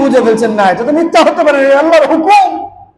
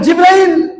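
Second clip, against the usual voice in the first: raised, high summoning call; 5 semitones higher, slower than usual. Acted. The Lord summoning the angel Jibril, calling out. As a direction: summon him by name with raised pitch. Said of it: "রব্বুল আলামিন ডাক দিল".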